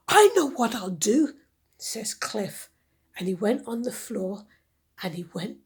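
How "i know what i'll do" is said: bright idea. Acted. Cliff has idea.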